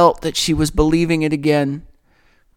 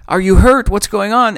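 worried father; 6 semitones higher, 5 dB louder than usual. Retold or imitated. Father checking his daughter.

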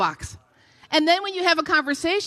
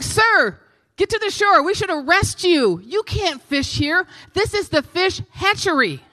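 higher, louder mock reprimand; imitated yelling; 5 semitones higher, 4 dB louder than usual. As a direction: call out a warning like an officer on shore. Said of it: "they start yelling at him".

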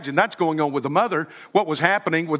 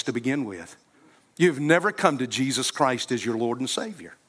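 altar call invitation. Acted. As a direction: invite them forward tenderly and unhurried. Altar call over music.

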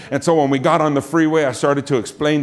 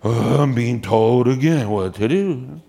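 low, slow sigh of resentment; weary reluctance; 4 semitones lower than usual. Acted. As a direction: drag it out like someone ordered around. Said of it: "will feel many times like".

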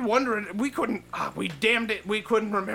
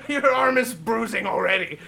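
laughing. Real, not acted. Laughing during play fighting.

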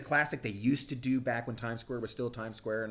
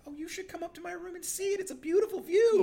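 flirty invite. Retold or imitated. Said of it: "And she's like".

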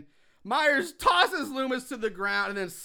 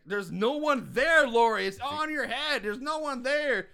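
mock insistence; 5 semitones higher, 4 dB louder than usual. Podcaster voicing Loomis talking to Lori, mock insistence. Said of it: "Loomis is trying to".

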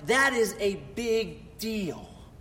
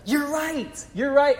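higher, chirpy satisfied reply; mimicking the daughter's pleased approval, higher; 5 semitones higher than usual. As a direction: sound pleased you got it right. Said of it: "And she's like".

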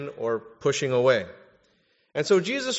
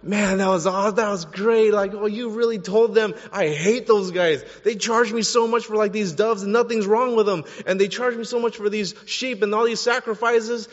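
higher, louder gleeful cheering; voicing a thrilled onlooker, higher and louder; excited crowd member; 5 semitones higher, 3 dB louder than usual. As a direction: cheer him on like a fan in the crowd. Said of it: "they're like".

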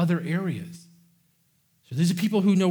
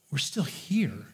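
hushed whisper; a sudden whispered aside; 2 semitones lower, 6 dB quieter, much slower than usual. Real, not acted. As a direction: breathe it, barely voiced. Quiet aside after mock quote.

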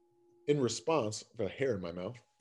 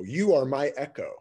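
cave echo. Shown as a demonstration. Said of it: "we're yelling into a cave and it's the echo".

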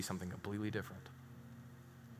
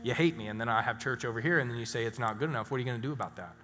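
defensive outburst; 4 dB louder, faster than usual. Retold or imitated. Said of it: "She's like".

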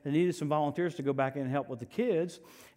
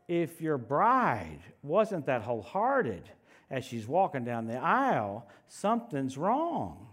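slow emphatic; 4 semitones lower, slower than usual. Real, not acted. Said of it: "There should be such excitement".

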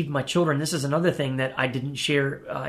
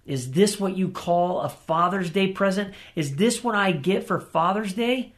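retold angry question to God, pitched higher; mildly mad, higher-pitched retold protest; 4 semitones higher than usual. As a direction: re-enact an indignant complaint to the Father. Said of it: "I just became so mad".

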